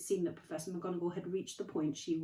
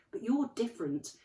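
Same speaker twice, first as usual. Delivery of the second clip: McGonagall; 6 dB louder than usual. Acted. McGonagall voiced.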